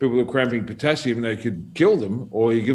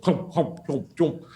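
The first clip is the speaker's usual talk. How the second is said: imitated gobbling sounds; gulping noises; 2 semitones higher, slower than usual. Sonny swallows the whole lot, comic gulping. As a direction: mimic someone gulping down pill after pill. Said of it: "Sonny's just gone".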